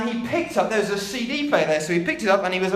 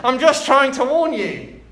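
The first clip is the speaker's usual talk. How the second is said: high, loud parrot squawk; 6 semitones higher, 6 dB louder than usual. Acted. Parrot warning the burglar, high loud squawk. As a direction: squawk it out like a not very good parrot. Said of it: "that's my parrot voice".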